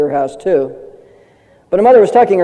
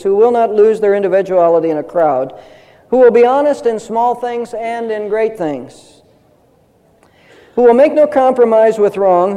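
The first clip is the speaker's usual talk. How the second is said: solemn quotation; 2 semitones higher than usual. Retold or imitated. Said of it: "He said".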